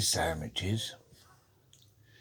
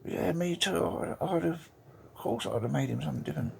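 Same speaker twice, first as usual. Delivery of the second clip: Australian lady; 10 semitones higher than usual. Acted. Australian wife agreeing at the funeral, high put-on lady voice. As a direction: pitch it up as an Aussie widow, quickening at the end. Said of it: "the Australian lady goes".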